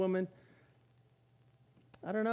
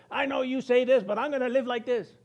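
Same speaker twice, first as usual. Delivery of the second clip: louder defiant mock retort; 4 semitones higher, 4 dB louder than usual. Rebellious person talking back to God, defiant. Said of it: "They're fighting God just like this".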